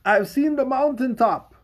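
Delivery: over-the-top orator impression; mock preacher quote. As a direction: boom it out like a parody of a sermon. Mocking a famous preacher's line.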